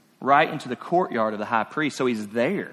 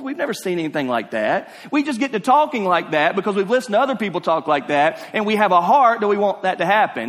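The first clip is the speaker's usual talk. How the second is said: raised, insistent preacher's voice; impassioned preaching; 4 semitones higher than usual. Real, not acted. Preacher challenging rival fans in the pews, impassioned. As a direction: drive the point home to the congregation.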